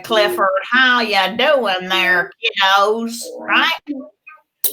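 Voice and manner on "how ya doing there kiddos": cowboy. Shown as a demonstration. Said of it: "He could be a cowboy".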